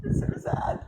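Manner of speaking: words lost in crying; whispered and weeping; tearful whisper. Real, not acted. Crying on stream.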